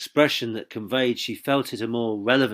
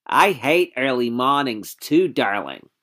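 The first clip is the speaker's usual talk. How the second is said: soothing; 3 semitones higher, 4 dB louder than usual. Acted. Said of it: "soothingly she sympathised".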